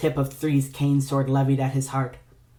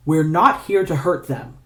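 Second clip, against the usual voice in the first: scolding; 3 semitones higher, 4 dB louder than usual. Acted. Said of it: "Two scolded".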